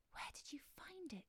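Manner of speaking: high, hushed mermaid voice; awed hush. A narrator's reading. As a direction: ask it softly, high and breath-held in awe.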